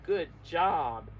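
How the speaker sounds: loud, bright praise. Real, not acted. Teacher praising children for guessing, loud and cheering. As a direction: cheer the class for the answer.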